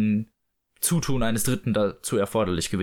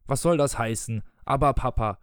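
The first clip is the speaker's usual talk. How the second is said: lightly voiced father, usual adult pitch; questioning father. Father challenges his daughter's protest, lightly indignant question. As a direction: quote the child back in a grown-up register. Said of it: "fragte Mister Darling".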